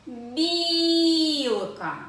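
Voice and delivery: long singsong call, "Бі-і-ілка" stretched on the first vowel. Shown as a demonstration. Teacher showing children how to find stress, calling out drawn-out. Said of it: "Це коли ми покличемо білку".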